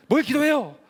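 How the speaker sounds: 높고 크게 따지듯 대들기; 어머니에게 발끈하며 되묻기; 반항하는 외침. Retold or imitated. 아들이 어머니에게 반항. (어머니에게 대드는 아들, 발끈한 외침)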